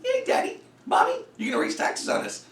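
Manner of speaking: high, squeaky mock cheering, yay yay; mock the cheering fans, high then trailing off. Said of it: "these frickin' idiots are cheering her".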